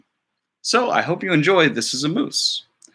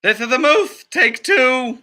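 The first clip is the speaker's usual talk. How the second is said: higher, louder clapboard call; slate announcer; 9 semitones higher, 4 dB louder, slower than usual. Acted. Teacher calling the slate for take two, higher. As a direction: call the take number for the crew.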